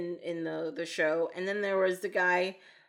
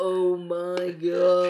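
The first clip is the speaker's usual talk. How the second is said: mock shock; 5 dB louder, much slower than usual. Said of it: "they're just shocked".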